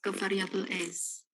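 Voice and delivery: choppy robot voice glitch; broken up, robotic audio feed; robotic audio distortion. Real, not acted. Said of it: "kayak suara robot gitu".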